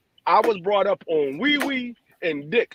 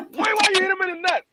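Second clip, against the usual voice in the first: grandma scolding; 11 semitones higher, faster than usual. Retold or imitated. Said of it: "She was like".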